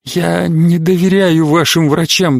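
usual speaking voice

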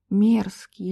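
usual speaking voice

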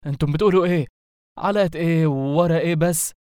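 high-pitched panicked protest, not a full scream; alarmed cry. Acted. Zombie overhears the leaders' deal, alarmed outcry. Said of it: "صرخ الزومبي بفزع".

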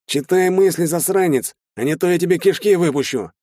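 high, loud menacing threat; threatening. Acted. Shtalin threatens the mind reader to scare him, menacing.

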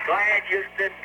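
thin radio voice; astronaut radio. Real, not acted. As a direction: talk over a crackly space radio link. Astronaut answering over radio.

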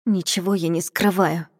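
forced out through gritted teeth. Acted. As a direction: speak with clenched jaw. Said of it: "процедила я сквозь стиснутые зубы".

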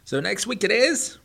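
high, loud, mocking hare; cocky hare voice. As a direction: taunt him like a bratty show-off. Bucky asks.

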